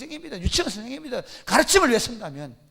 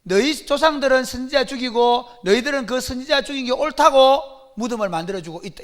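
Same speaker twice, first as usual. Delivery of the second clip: sarcastic; 2 semitones higher, 7 dB louder than usual. Retold or imitated. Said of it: "이렇게 비꼬아 말하는 거예요".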